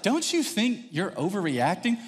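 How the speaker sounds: slow, gentle challenge, rising at the end; measured questioning. Retold or imitated. Wife questioning her worked-up husband, measured. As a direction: question it evenly and slowly.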